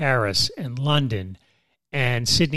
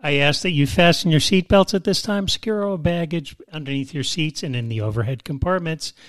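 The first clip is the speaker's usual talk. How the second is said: pilot announcement. Pretend. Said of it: "I'm driving the plane tonight".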